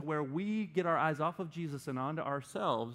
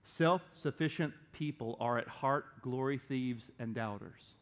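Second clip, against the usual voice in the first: slow repeat; 2 semitones lower than usual. Shown as a demonstration. Preacher repeating it for somebody who needs it, slowly. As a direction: say it slowly so it sinks in. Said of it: "let me say that slow".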